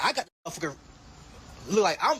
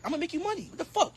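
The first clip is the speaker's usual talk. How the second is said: mock squeal; 10 semitones higher, 3 dB quieter, faster than usual.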